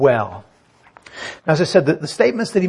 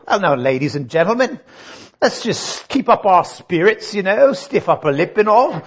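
mock Victorian gentleman. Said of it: "this is not a Victorian gentleman".

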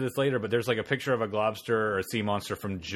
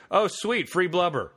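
delighted; 6 semitones higher than usual. Retold or imitated. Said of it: "are just like".

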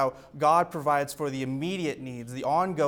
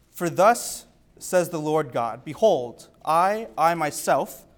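scripture reading. Acted. Preacher reading Ezekiel to the congregation, solemn and declaiming. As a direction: proclaim it like scripture read from the pulpit. Reads Ezekiel aloud in sermon.

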